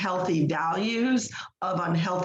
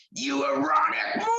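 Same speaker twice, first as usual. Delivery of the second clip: demon-like yelling; 7 semitones higher than usual. Retold or imitated. Crazy patient yelling names at another patient, demon-like yell. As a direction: imitate a demon-voiced woman yelling. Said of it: "like, yelling at me".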